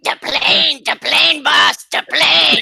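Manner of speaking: announcer call. Shown as a demonstration. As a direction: stretch each Des Plaines like a ring announcer. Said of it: "you're doing it wrong".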